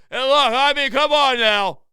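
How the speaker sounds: loud, exasperated protest. Real, not acted. Host fed up with a terrible lineup, exasperated. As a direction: burst out in disbelief.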